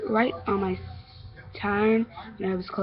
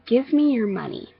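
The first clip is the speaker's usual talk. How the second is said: lightly voiced bully, a bit higher; demanding bully; 4 semitones higher, 4 dB louder than usual. Bully demands money from a kid on the street, demanding. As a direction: give it as a slightly raised demand.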